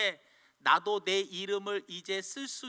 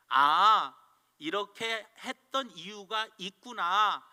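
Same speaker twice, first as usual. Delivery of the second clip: louder, slowed "그렇구나" in understanding; accepting tone; 6 dB louder, slower than usual. Shown as a demonstration. Preacher shows the accepting response to problems. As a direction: accept it, nodding along. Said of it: "인정해주고".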